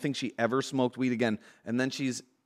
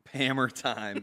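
Pammer Time, each word stretched slowly; slow drawn-out nickname; slower than usual. Shown as a demonstration. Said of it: "cool nickname".

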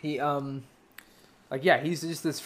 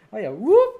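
high, louder comic whoop; Robin Williams whoop; 7 semitones higher, 7 dB louder than usual. Retold or imitated. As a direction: pop it out like a comic. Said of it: "He would go".

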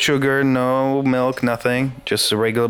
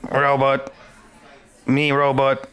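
robot voice. Pretend. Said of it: "Why are you talking like that?".

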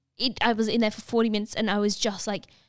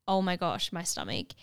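pained groan; 3 semitones lower, 5 dB quieter than usual. Retold or imitated. Stomach cramps before the scan.

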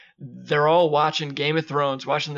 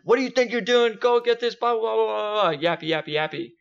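mock yelling; 7 semitones higher than usual. A drunk corporal yelling down the hall, high mock rant. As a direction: imitate a corporal ranting across the hall. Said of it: "yelling at him".

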